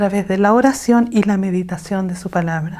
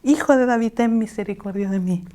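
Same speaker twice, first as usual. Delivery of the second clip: mock cry; 4 dB quieter than usual. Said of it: "gritaban mucho más, diciendo".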